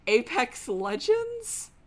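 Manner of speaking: loud, slow announcer hype. Real, not acted. Streamer hypes tomorrow's stream to chat, loud. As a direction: sell tomorrow's game loudly. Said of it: "a really abrupt tone switch".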